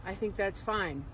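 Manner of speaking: a second, nearly plain try at Trump; barely voiced Trump, close to own voice; Donald Trump impression. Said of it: "I can't do a Donald Trump impersonation".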